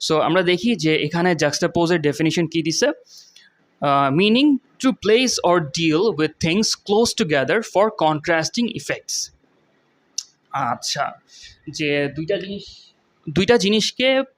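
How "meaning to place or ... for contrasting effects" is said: reading the definition aloud, very slowly. Shown as a demonstration. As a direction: spell the meaning out word by word for learners. Reads dictionary definition slowly.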